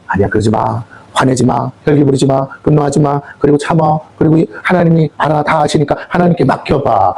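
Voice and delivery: low, calming inner voice; gentle soothing. Acted. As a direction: talk someone down from anger, starting low. Holy Spirit soothes the heart.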